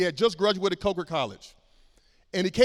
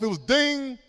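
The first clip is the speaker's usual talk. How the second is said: cartoon ding; 5 semitones higher, slower than usual. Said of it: "like those cartoons, you know, the light bulb go off".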